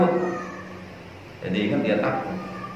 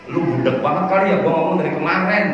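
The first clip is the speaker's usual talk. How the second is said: higher-pitched, quickening telling-off; exasperated scolding; 7 semitones higher, 3 dB louder, faster than usual. Acted. Husband scolding wife who will not listen, exasperated. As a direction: act out an impatient spouse's nagging outburst. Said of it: "ngomongnya rada kenceng".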